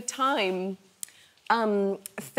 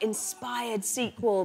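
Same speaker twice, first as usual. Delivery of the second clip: slow quote read; 2 semitones higher, much slower than usual. Retold or imitated. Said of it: "beautiful quotes like".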